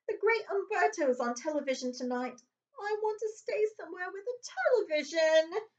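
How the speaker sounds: whiny Dudley. Acted. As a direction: demand it like a spoiled child. Dudley whining for television.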